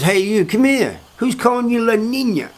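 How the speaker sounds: high-pitched confronting questioner; demanding summons. Retold or imitated. Acted summons and interrogation.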